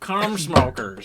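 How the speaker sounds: slow, drawn-out failed Australian accent; bad Australian accent. Shown as a demonstration. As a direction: try an Australian accent and miss. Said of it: "I can't do an Australian accent".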